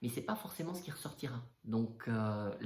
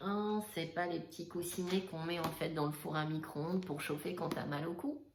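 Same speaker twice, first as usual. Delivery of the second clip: higher mock-naive influencer voice; Kimberly Tiffany voice; 6 semitones higher than usual. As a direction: play a clueless influencer gasping at a heat pad. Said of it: "notre chère, euh, Kimberly Tiffany".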